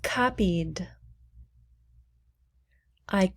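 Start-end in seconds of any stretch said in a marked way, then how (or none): 0.0-0.9 whispered model word. Shown as a demonstration. Teacher whispering a word to repeat. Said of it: "Please repeat".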